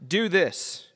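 a mild commanding tone, short order; imperative voice. Shown as a demonstration. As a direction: say it lightly, as an order. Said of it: "Command comes in an imperative voice".

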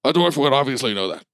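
lightly voiced, self-important commander; a touch of lofty pride, starting high; giant bulldog leader. Bulldog boasts to the crew, lightly self-important commander.

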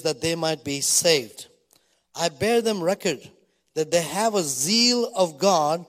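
slow, emphatic Bible reading; scripture reading. Acted. Preacher reads Paul's words to the congregation, slow solemn reading. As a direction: read it out deliberately, weighting key words.

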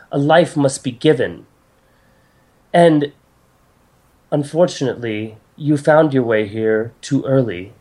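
lightly voiced goddess delivering a solemn decree; grave goddess. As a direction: break bad news with formal gravity. Game master voices goddess.

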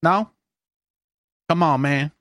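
fast, high mock Sun Doobie voice; Sun Doobie impression. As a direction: ham up a rapper skit voice. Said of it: "the best impression in your repertoire".

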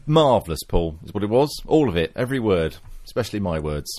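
dry, sarcastic praise; deadpan mock compliment. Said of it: "why does it sound so sarcastic coming out of your mouth".

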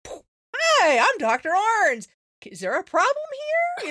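firm, loud and slow, stepping in as the vet; loud confrontational greeting. Retold or imitated. Vet confronting a shouting client, loud and firm. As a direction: announce yourself loudly to stop a row. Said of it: "And I was like".

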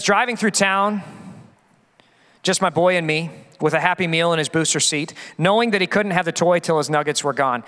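measured spoken song lyrics; lyric recitation. A narrator's reading. Preacher reads a country song to the congregation, storytelling recitation. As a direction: read the lyrics like a story, phrase by phrase.

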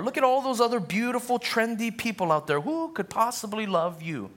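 preacher voicing Satan to the congregation, mocking and high. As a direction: jeer at the listener like a cruel tempter. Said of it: "He'll say things like this".

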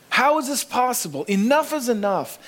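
worn-out believer crying out; pleading lament. Retold or imitated. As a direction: beg God to make it stop. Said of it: "You ever found yourself saying that".

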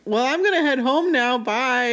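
high-pitched, imitated tearful goodbye; mock tearful. Retelling the rejected girl leaving in tears, mock tearful. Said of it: "is crying, literally crying".

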